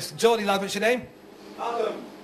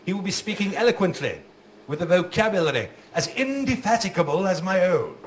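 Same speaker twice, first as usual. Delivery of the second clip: posh headmaster; 4 semitones lower than usual. Retold or imitated. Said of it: "The headmaster said".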